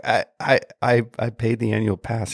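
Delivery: mildly startled, hesitant self-defence; flustered protest. Retold or imitated. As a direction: imitate being caught off guard, stuttering. Stammered reply to being screamed at.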